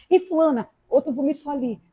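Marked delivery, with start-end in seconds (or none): 0.1-0.7 calling out. Retold or imitated. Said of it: "aí Mara".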